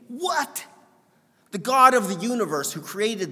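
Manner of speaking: can't believe what he just read; a sudden high cry of disbelief; astonished. Real, not acted. Astonished at God's love.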